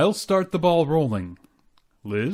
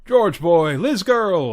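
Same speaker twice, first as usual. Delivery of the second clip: hearty greeting; 2 semitones higher, 6 dB louder, much slower than usual. Acted. Cheerful neighbour greeting at door.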